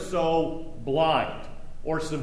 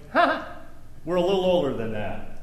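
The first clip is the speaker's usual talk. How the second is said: mock Jericho boast. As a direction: tease like a proud old city. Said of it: "Jericho's going".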